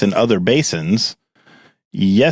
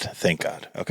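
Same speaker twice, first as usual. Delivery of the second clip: whispered relief; 3 semitones lower, 11 dB quieter than usual. Shown as a demonstration. Host relieved the guest slept through the episode, whispered. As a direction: whisper thank God under the breath. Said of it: "Okay, thank God".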